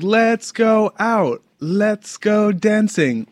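high, loud, slow eager call; excited party voice. Retold or imitated. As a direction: sell the party urge. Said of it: "I'm like".

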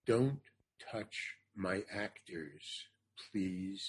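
low, slow, quiet displeasure; cold, hushed order from the director; John Huston, pissed. Retold or imitated. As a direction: space it out softly, no pleasure in it. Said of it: "he was really pissed at her".

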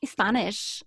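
shaky attempt at a Spanish accent. Shown as a demonstration. Starting the Spanish demo, unsure Spanish accent. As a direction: try English with a Spanish accent. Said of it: "Spanish is not one of my best".

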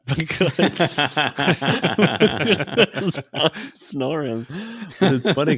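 helpless laughing at himself. Real, not acted. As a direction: break up laughing mid-sentence. Laughing at own snoring story.

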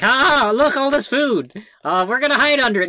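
high, fast, gleeful rat voices; squeaky delight at the food; excited rats. Retold or imitated. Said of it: "they're just like".

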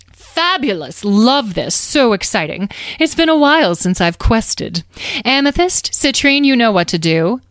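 lightly voiced flamboyant glee; delighted fairy leader. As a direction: gush in short theatrical bursts. Carnelian thrilled to quest.

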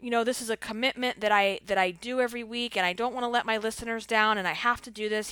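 anxious, pleading insistence; freaking out. Retold or imitated. To her husband, insisting she must record, a touch frantic. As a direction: tumble it out, worried about letting people down. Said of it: "so freaking out".

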